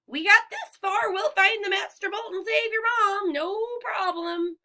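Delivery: forced bravado. A narrator's reading. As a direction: sound brave for a friend. Grover trying to sound brave.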